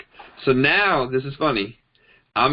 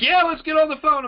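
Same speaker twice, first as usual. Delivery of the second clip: much higher, silly eager voice; hammed-up tipsy buddy begging for a call; mock drunk friend. Imitating a drunk friend who wants to get on the phone, mock eager.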